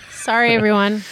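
coughing after water down wrong pipe; choking on water. Real, not acted. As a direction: cough through the apology. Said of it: "I just swallowed water down the wrong tube".

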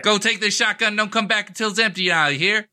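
mock Texan accent. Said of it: "I gave him a Texan accent".

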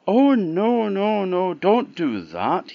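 high, loud goat's protest; alarmed pleading. A narrator's reading. Goat begging the troll not to eat him, high alarmed plea.

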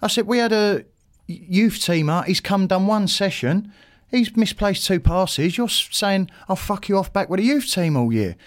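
mildly heated complaint; retold telling-off. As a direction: relive having it out with the boss. Retold confrontation with the manager.

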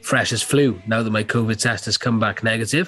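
blocked nose from a cold; stuffy nose. Real, not acted. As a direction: talk through a stuffy nose. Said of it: "Apologies if I sound a bit under the weather".

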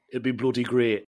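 a botched go at Yorkshire; attempted Yorkshire accent. Imagining himself with a Yorkshire accent, attempted Yorkshire. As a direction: have a shaky stab at a Yorkshire accent. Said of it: "I don't know what that was".

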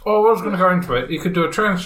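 talking while chewing; chocolate in mouth; mouth full. Real, not acted. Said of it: "I'm eating Equality Street while I'm talking".

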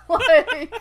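high-pitched, helpless laughing delivery. Real, not acted. Podcaster amused by the mother's deadly mishap, laughing. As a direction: laugh right through the words.

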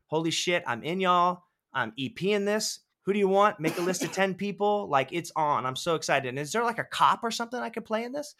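imitating her saying yes on the phone; thrilled imitation. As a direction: rattle it off like someone all in. Actress quoted thrilled on call.

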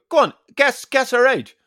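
mock instructor badgering the class; mimicking the instructor. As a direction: needle them to guess like a smug teacher. Instructor voiced in story.

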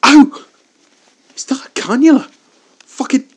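high panicked yelps at the needle; shrieking in pain and alarm; getting a needle. Acted. Captive stabbed with needle.

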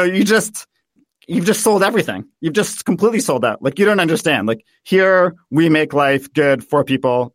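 a hammed-up superior lecture; condescending. Viennese hosts scolding Americans for selling out, condescending. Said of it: "They're just so dripping with condescension".

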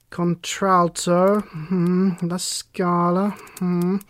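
lightly acted musing, drawn-out words between hums; musing detective. Detective reading her index entry aloud, lightly acted as musing. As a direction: mull over each entry as you read.

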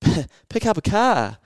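high, loud confused echo of the question; high mock confusion from the saleswoman; puzzled receptionist. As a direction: mimic her baffled repeat. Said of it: "She's like".

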